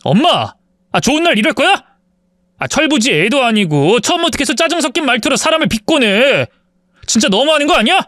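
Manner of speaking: 높은 목소리로 엄마에게 따지는 남편; 참다못해 터뜨리듯 항의. A narrator's reading. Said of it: "시모한테 화를 냈습니다". (엄마에게 화내며 항의하는 남편, 높고 날카롭게)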